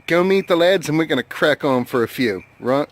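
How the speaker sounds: lightly put-on British accent; casual imitation of a British accent; mock British accent. Shown as a demonstration. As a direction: have a go at British lad talk. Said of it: "you know, something like that".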